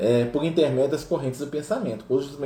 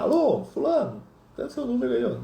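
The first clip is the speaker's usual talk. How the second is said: pretend phone call; 10 semitones higher than usual. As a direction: play at dialing someone up. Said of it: "como se ele pegar o telefone e ligar".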